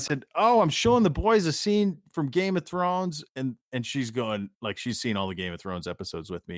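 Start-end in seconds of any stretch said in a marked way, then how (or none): 0.3-3.2 innocent reply. Retold or imitated.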